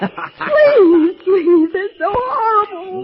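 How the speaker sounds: sobbing, begging for mercy; frightened woman crying out to her captor; terrified pleading. Acted. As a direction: plead through tears, horrified.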